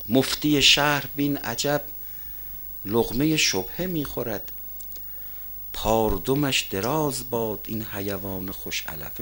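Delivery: slow, measured verse recital; poetry recitation. Real, not acted. Preacher quoting Hafez on the city mufti, slow recitation. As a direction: recite it slowly, phrase by phrase.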